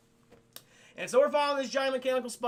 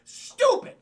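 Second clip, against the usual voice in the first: exasperated shout; 10 dB louder than usual. Real, not acted. Reacting to chat about the film, exasperated shout. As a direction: yell it much higher and louder.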